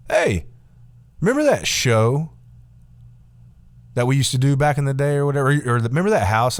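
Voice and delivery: lightly voiced creepy nice guy; creepy Steve. Steve reminiscing to grown-up viewers, lightly creepy and eager. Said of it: "Like, really creepy".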